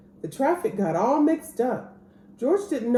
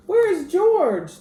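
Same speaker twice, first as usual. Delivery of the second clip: slow, loud, high call across the deck; 9 semitones higher, 6 dB louder, slower than usual. A narrator's reading. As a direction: call out searching for George. Sailors searching for George.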